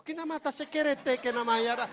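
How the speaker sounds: bahasa roh tiruan. Acted. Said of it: "ngobrol pakai bahasa roh". (pura-pura berbahasa roh)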